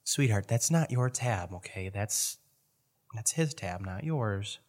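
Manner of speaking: soft, slowed, condescending "sweetheart" talk; patient correction. Acted. Bartender telling a customer it's not their tab, quietly patient. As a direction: quietly set the customer straight.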